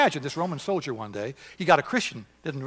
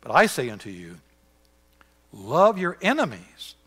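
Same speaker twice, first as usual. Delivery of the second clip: solemn scripture reading; 3 semitones higher than usual. Acted.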